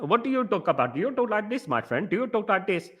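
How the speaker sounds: soft, lilting put-on South Asian accent; exaggerated South Asian accent, pitch bobbing up and down; mock South Asian accent. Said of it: "Are you making fun of my accent".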